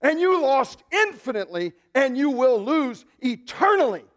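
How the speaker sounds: high, loud victory proclamation; Jesus declaring victory over the spirits, loud and high; triumphant declaration. Acted. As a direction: declare the defeat to the spirits in prison. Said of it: "What was he going down to declare".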